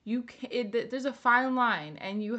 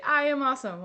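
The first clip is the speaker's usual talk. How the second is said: mirror affirmation; 5 semitones higher, 7 dB louder, faster than usual. Shown as a demonstration. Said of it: "you look at yourself in the mirror and you say".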